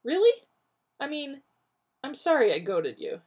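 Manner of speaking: shocked. Acted. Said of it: "shocked into graciousness".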